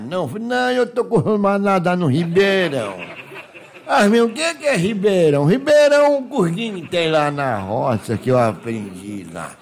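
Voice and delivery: rustic Minas yokel acting out the tale; naive country bumpkin, sheepish. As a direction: tell it as an innocent countryman who got laughed at. Countryman continues his embarrassing tale.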